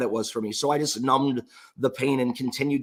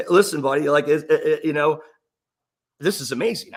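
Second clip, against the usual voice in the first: laughing excitement; 3 semitones higher, 5 dB louder than usual. Retold or imitated.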